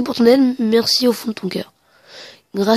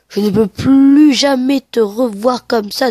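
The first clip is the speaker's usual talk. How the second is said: syllable by syllable; slower than usual. Real, not acted. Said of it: "Je fais syllabe par syllabe".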